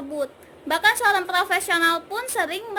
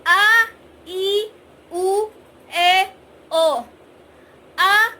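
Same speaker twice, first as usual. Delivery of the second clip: medium-speed vocal warm-up; medium vowel drill; 3 semitones higher, 6 dB louder, much slower than usual. Shown as a demonstration. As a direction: run the vowels at a steady medium pace. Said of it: "dengan kecepatan medium".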